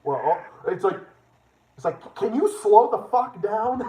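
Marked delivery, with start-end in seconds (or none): 2.1-3.8 mock exasperation. Acting out reaction to fast talker.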